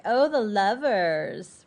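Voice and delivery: drawn-out mocking sing-song; making fun. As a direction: tease the couple, stretching the words. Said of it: "making fun of them".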